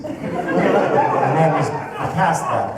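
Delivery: ordinary talk, nothing marked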